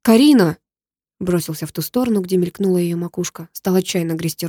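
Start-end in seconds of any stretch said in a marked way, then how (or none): 0.0-0.6 loud, higher call of her name. Acted. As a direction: shout her name across the water. Calling out in the water. (громко зовёт Карину)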